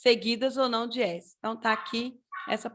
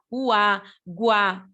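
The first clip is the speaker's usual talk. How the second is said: "uá, guá" with a weak U gliding into a strong A; stress on the A; 3 dB louder than usual. Shown as a demonstration. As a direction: lean on the final A in "uá, guá". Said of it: "O u a gente fala mais fraquinho, o a mais forte". ("uá, guá" com u fraquinho e a mais forte)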